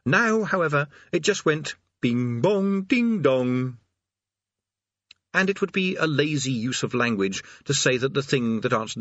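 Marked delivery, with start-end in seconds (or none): 2.0-3.8 slow sing-song bing bong; doorbell chime. A narrator's reading. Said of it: "The sound it produced".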